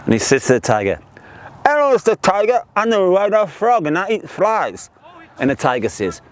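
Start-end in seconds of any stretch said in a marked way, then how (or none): 1.6-4.9 joke-telling voice of a wide-mouthed frog; exaggerated wide-mouthed frog greeting. Frog proudly introduces himself to a monkey, wide-mouthed frog voice.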